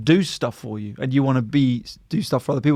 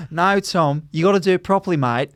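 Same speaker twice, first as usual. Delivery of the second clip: lightly hammed Australian girlfriend, near usual pitch; bad Australian accent; 3 semitones higher than usual. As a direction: try a milder mock Australian accent. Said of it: "this is how she sounds".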